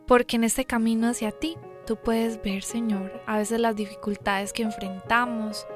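soft, earnest prayer voice. Acted. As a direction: pray quietly and sincerely. Leads an opening prayer.

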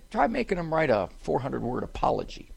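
normal talking voice

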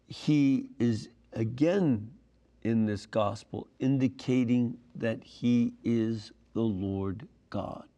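ordinary talk, nothing marked

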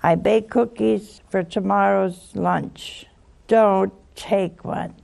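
slow, firm mother; mother's warning. Retold or imitated. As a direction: warn like a mother laying down a rule. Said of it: "Your mother said".

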